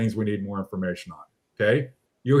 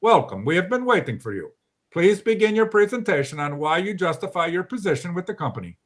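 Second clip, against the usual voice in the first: lightly put-on Polish accent, formal and deadpan; 4 semitones higher than usual. Polish colleague greeting people who wander into the room, lightly done Polish accent. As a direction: greet them in a mild Polish accent, mock-official. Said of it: "I'll say it in his Polish accent".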